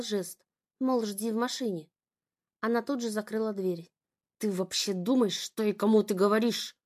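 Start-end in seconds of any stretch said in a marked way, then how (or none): none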